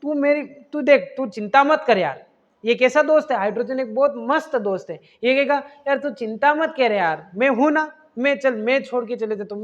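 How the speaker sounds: hydrogen soothes crying oxygen, gently slowed; consoling friend. Retold or imitated. A hint of a friend hushing tears. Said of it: "ये hydrogen बोलेगा".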